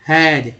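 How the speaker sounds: हैज said as one word, not spelled; हैज read out as a word; word said alone. Shown as a demonstration. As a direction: model हैज as a single word. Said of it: "तो हो गया हैज".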